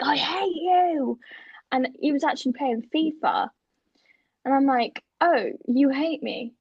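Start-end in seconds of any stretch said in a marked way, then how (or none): 0.0-1.2 very slow, stretched mock outburst; imitated angry brother. Brother absorbed in FIFA as sister enters, mock anger. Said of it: "he was just like". 5.2-6.5 slow, wounded little question; mock hurt. Sister answering brother's outburst, mock hurt. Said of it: "and I feel sad".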